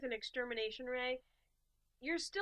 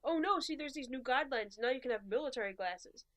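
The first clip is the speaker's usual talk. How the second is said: eager recruiter; 2 semitones higher, 3 dB louder than usual. Retold or imitated. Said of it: "They're like".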